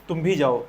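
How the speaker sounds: भी said with extra weight; stress on भी. Shown as a demonstration. Teacher shows pupils the stress on भी. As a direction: lean on भी in "तुम भी जाओ". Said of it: "और जोर देकर बोला जाता है".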